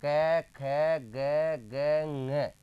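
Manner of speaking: क, ख, ग, ग spaced out, ending in nasal ng; letter-sound drill. Shown as a demonstration. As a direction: recite each letter apart, ng held as nga from the nose. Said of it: "क्या बोलेंगे इसको बताइए?". (क ख ग ग अलग-अलग, फिर ng नाक से "ङ")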